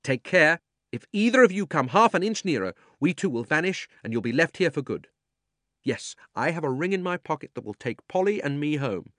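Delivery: high, loud urgent warning; a boy yelling a threat to protect his friend; shouting boy. A narrator's reading. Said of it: "shouted out".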